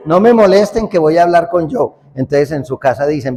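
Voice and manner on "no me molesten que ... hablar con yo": laughing quote. Retold or imitated. Repeated while laughing.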